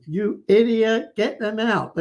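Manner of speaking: mock screaming wife. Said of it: "She's screaming at him".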